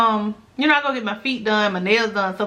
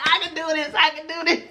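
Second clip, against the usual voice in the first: higher, laughing self-encouragement; laughing joy; 6 semitones higher, faster than usual. Retold or imitated. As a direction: giggle with happy disbelief. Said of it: "I was like".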